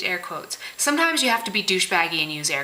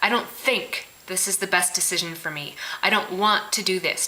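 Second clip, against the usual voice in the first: firm, even correction without hedging; direct statement; 2 semitones lower than usual. Shown as a demonstration. Showing how to own a decision, direct. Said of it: "You think it".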